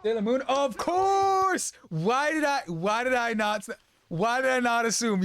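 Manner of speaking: thrilled fan exclaiming, pitched well up; excited outburst. Real, not acted. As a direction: burst out in delighted recognition. Streamer learns of shared favorite series.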